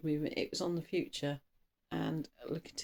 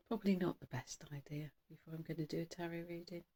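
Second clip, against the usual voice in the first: whispered aside; 8 dB quieter, faster than usual. Real, not acted. Hushed aside about caffeine.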